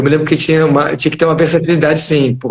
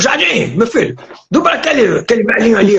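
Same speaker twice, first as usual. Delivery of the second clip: higher-pitched imitation of a dubbing director; director calling out; 5 semitones higher than usual. Director calling the young dubber to a job, calling out. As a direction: call him over in a lifted voice.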